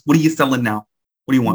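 mock-annoyed Bronx accent. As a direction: do a Bronx local fed up with callers. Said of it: "a accent from the Bronx".

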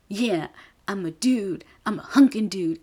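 imitating a girl faking a guy; mock tough guy. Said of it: "this is Viola pretending to be a guy".

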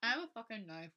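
a hint of a girl making a mock threat; mock threatening girl. Friend improvises a girl threatening Jessica, lightly hammed-up threat.

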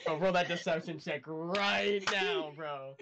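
laughing. Real, not acted.

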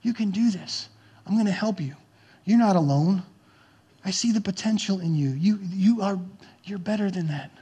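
put-on tender father encouraging his child; whispered encouragement. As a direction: lean in and build the kid up quietly. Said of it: "encourage them".

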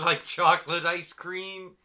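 laughing. Real, not acted. Laughs mid line.

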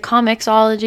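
"Comixology" run together as comics-ology; questioned pronunciation. Shown as a demonstration. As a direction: ask it as one word, "Comixology", with the x sounded. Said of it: "or what do you say".

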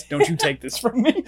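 put-on clutching the theory like a kid who won't share; mock possessive whine. Replaying his own line to his cohost, as a mock childish whine. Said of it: "It's just dead ass".

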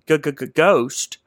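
playfully faked fright, tripping on the word; mock-scared stutter. Explaining a spirit to co-hosts, mock-scared stutter. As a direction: stammer on the g of ghost. Playful spooky definition of conjuring.

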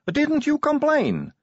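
high, slow earnest question; sincere surprised newcomer; young vampire woman voice. A narrator's reading.

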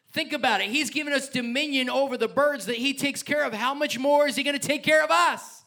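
building to a high, impassioned question; passionate yelling. Real, not acted. Preacher assuring the church of God's care, passionate yelling. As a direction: preach it high, rising in force. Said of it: "I'm yelling. I'm getting passionate".

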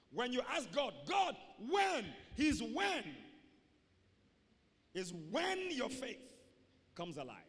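rising to a ringing shout on when; preaching shout. Real, not acted. Preacher to congregation, ringing shout. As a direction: build up and call it out over the church.

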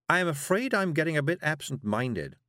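high, mildly fretful confession; worried. A narrator's reading. Miss Level admits she is forgetful, worried. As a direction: fret a little as you admit it. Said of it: "Miss Level worried".

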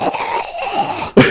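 voiceless mock wheeze; imitated choking on smoke. Imitating a friend about to die after one puff, wheezing. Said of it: "and he's like".

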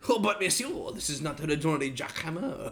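lightly done mock French accent; a hint of a fake French accent; half-hearted French accent; bad French accent. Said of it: "we have the worst French accents".

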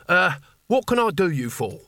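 jokey put-on customer-service tone; humorous self-parody. A narrator's reading. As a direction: send yourself up as you ask. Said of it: "that special voice which people use for humorous self-parody".

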